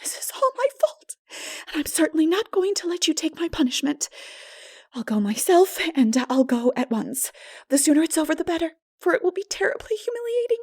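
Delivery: high, whispered start then brave and fast; resolute girl. Acted. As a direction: steel herself to face him. Anne resolute.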